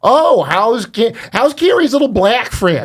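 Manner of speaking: high-pitched Midwestern voice. Retelling what their ex asked them, imitating her Midwestern accent. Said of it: "she has this Midwestern accent".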